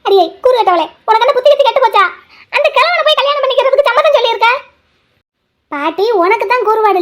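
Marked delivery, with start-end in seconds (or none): 0.1-4.5 grandmother's shrill, higher-pitched telling-off; furious grandma scolding the foolish girl; angry scolding. Acted. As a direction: scold her sharply, voice climbing.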